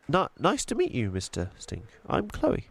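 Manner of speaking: put-on high, curious little-girl voice; young girl Chloe. Chloe speaks nervously.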